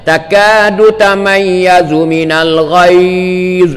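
drawn-out Arabic verse, not sung; slow spoken recitation. Shown as a demonstration. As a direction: read "Takadu tamayyazu minal ghaiz" slowly, spoken. Recites verse before sung take. (bacaan ayat perlahan tanpa lagu)

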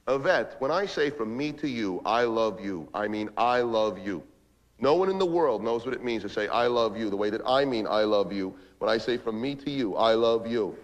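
low, measured vow of love; earnest declaration. Acted. Man convincing girlfriend of the love, earnest and low.

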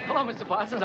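breathless, panting greeting; out of breath. Real, not acted. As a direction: gasp the words after running. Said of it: "I'm all out of breath".

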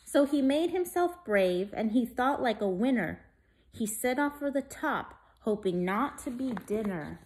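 put-on lively rhyming read-aloud for kids; story reading. A narrator's reading. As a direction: read it like a bedtime picture book. Reads rhyming picture book.

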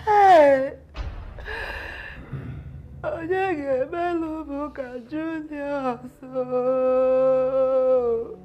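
sobbing lament for her husband; wailing widow. Acted. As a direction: cry out his name in grief. Widow wailing over dead husband.

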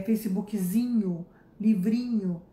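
Facebookzinho and livrinho drawn out slowly; mock diminutive. Shown as a demonstration. Teacher mocking the sound of the Brazilian added i. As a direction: stretch Facebookzinho as a playful diminutive. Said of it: "É como se eu estivesse falando".

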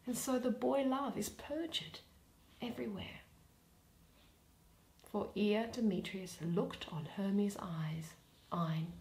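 lightly voiced, brooding soliloquy, often near a hush; musing bitterly on love aloud; Helena's lament. Helena alone, brooding over Demetrius, half-hushed and rueful.

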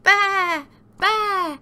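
loud, high baas; bleating sheep. A narrator's reading. Storyteller as Sheep, loud high bleating. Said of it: "bleated Sheep".

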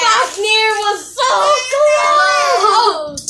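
sing-song rising to a wail; yelling at a horse race. Real, not acted. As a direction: wail the last word. Top just lost the round.

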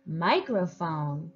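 "microphone" blended slowly and smoothly; slow blend for the class; slow blended word. Shown as a demonstration. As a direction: glide through "microphone" in one slow breath. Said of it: "then we'll blend them together".

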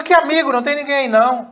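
high, loud incredulous retort; baffled and insistent, voice jumping up; acted disbelief. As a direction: throw it back in disbelief, pitched high. Acted baffled reply, newsstand owner.

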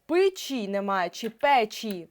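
slow demo. Shown as a demonstration. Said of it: "ми сумніваємось".

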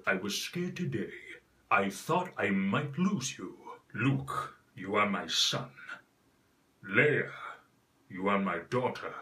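lightly deepened film villain; Vader Mufasa voice. Shown as a demonstration. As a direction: rumble it like a grave father. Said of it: "the voice of Mufasa".

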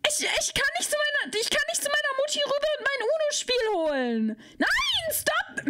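high whimpering whine; whiny protest. Acted. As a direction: whimper then squeal stop. (hohes Wimmern, dann Quieken)

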